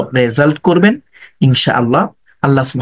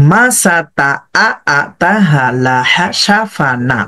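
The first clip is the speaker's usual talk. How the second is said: joined reading. Shown as a demonstration. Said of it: "আগের পরের সাথে মিলিয়ে দেন".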